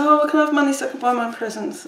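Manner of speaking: imitating kids. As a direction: lightly mimic kids asking for money. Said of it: "I know the kids, they, you know".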